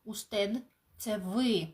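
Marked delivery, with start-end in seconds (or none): 0.0-0.6 "Устед" ending with tongue between the teeth; interdental D. Shown as a demonstration. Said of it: "Він між зубками".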